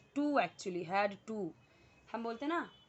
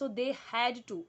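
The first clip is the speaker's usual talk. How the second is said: slow dictation; much slower than usual. Shown as a demonstration. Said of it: "मुझे बोलना हो करना पड़ता था".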